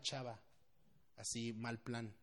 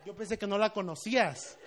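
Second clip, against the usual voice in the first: higher, louder mock indignation; betrayed accusation; 6 semitones higher, 8 dB louder than usual. Café customers to pastor they think lied, mock betrayed. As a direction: accuse him as if he betrayed you. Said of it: "me vieron como que los traicioné".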